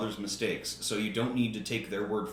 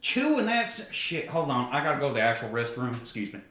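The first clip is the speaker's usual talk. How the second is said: hillbilly voice; 4 semitones higher than usual. Acted. Acted tobacco chewer, flustered.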